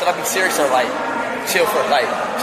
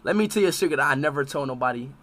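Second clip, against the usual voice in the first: low, very soft confiding voice; confiding secret; 14 semitones lower, 11 dB quieter, much faster than usual. Real, not acted. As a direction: keep it down, as if sharing a secret.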